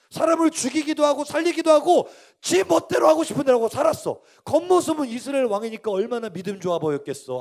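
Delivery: high, insistent sermon delivery; impassioned preaching. Real, not acted. Preacher exposing the king's outward faith, impassioned. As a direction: press the argument point after point.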